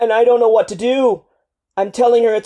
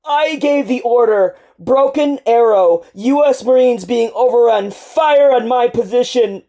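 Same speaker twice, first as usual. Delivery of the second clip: louder, higher, choked by tears; sobbing confession; 5 semitones higher, 8 dB louder than usual. Acted. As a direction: confess the fatal order through sobs. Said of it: "Your body is shaking with sobs again".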